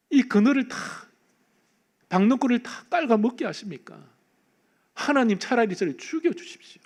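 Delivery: preacher voicing Jonah's bitter complaint; Jonah complaining. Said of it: "또 불만이 터져 나옵니다".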